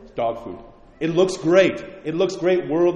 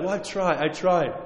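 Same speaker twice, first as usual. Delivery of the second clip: whiny excuse; 3 semitones higher than usual. Retold or imitated. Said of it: "People often say that".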